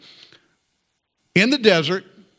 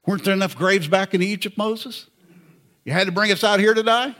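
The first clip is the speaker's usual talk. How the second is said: snarky. Retold or imitated. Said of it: "Pretty snarky".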